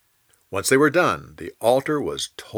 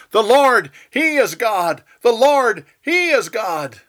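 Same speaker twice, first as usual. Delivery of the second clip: higher, louder crowd shout of praise; 9 semitones higher, 6 dB louder than usual. Acted. People fallen down before the fire, shouting praise. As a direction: cry it out in awe. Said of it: "fell down and shouted".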